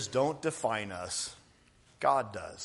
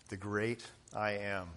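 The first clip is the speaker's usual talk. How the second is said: "great" repeated much softer; soft echo; 3 semitones lower, 8 dB quieter than usual. Shown as a demonstration. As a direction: let "The great I am" fall away softly, in awe. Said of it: "God, he is the great I am".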